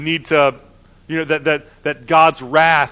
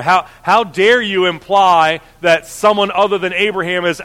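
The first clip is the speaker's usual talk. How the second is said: heated; 2 semitones higher, 4 dB louder than usual. Acted.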